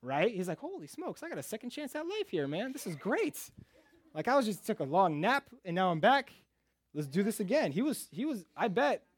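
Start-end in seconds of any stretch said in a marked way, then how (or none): 0.6-7.7 high-pitched, giddy mock excitement; stoked Lazarus. Lazarus back from the tomb to the crowd, stoked. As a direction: act thrilled in a much higher voice. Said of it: "Lazarus was probably the most stoked".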